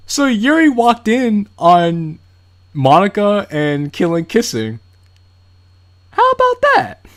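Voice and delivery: slow, high and loud astonishment; mock shock. Real, not acted. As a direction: drag it out in disbelief. Shocked reaction to kiss.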